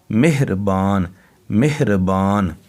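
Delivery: मेहरबान said slowly, syllable by syllable, with a silent ह after मे; careful slow spelling-out. Shown as a demonstration. Teacher sounding out मेहरबान slowly for children. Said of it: "बल्कि मेहर".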